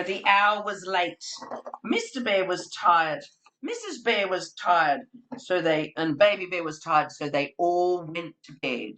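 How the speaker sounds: measured read-aloud storytelling; story narration. Acted. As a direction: set the sleepy scene for children. Reading Peace at Last.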